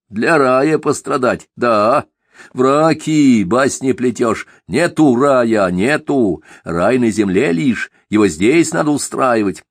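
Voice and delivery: fiery revolutionary arguing back; heated zealot. Acted. Simagin voiced in narration.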